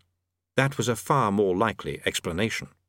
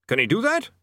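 worried; 10 semitones higher than usual. A narrator's reading. Bursar worried.

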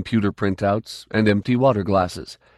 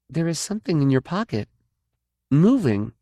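raised, quickened warning; alarmed notice; 7 semitones higher than usual. Acted. Kay spotting something moving in Tough's pocket, startled. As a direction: point it out fast, startled.

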